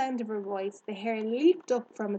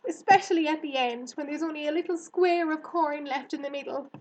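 high, loud, anxious rush of explanation; urgent warning; 6 semitones higher, 6 dB louder than usual. Acted. Girl warns hare about harvest shooting, urgently. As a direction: warn a friend earnestly.

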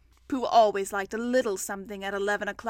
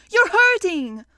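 loud, high protest; pained cry; 8 semitones higher, 10 dB louder, slower than usual. A narrator's reading. Pooh being pulled by Rabbit, pained. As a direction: protest as if it hurts. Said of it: "cried Pooh".

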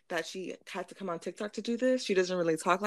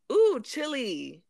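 drawn-out mock gush on ooh; slow, sing-song imitation of the girl; mock influencer; 5 semitones higher, 4 dB louder, much slower than usual. Mocking the TikTok girl's mispronunciation, slow. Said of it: "she was like".

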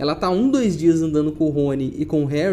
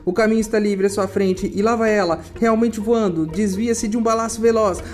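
live play-by-play; 2 semitones higher than usual. Acted. Reads quidditch match commentary.

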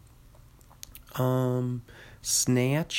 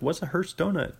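puzzled victim; 6 semitones higher than usual. Acted. Acting puzzled victim of prank.

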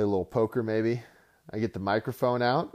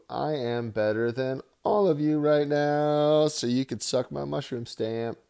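sneering wrestling villain; 5 semitones higher, 5 dB louder than usual. Acted. Trash-talking his league rivals.

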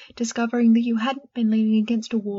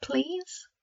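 pleading please; 8 semitones higher, 6 dB quieter than usual. Acted. Girl begs the elf.

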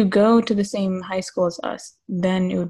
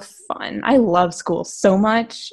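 sarcastic. Shown as a demonstration. Friend showing Alex how sarcasm sounds, sarcastic. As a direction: feign love for school, drawing out the praise. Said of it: "What do I say that's sarcastic?".

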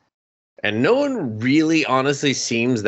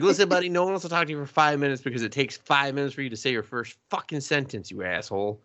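fast rant; 4 semitones higher, 3 dB quieter, faster than usual. Retold or imitated. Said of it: "I was like".

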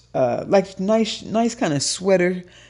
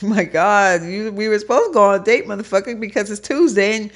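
fast, loud, higher exasperated telling-off; exasperated rant; 5 semitones higher, 3 dB louder than usual. Pretend. Chewing out a date who forgot the time, exasperated rant. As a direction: let it spill out fast and fed up. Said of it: "I'm like".

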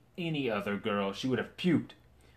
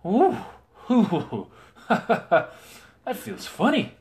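giggling knight; 11 semitones higher, 7 dB louder, much slower than usual. Acted. Knight's stomach rumbles, he giggles.

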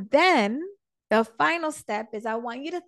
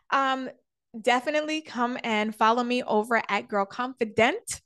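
holding back hiccups mid-sentence; talking through hiccups; suppressing hiccups; 2 semitones higher than usual. Real, not acted. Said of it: "Oh, excuse me, hiccups".

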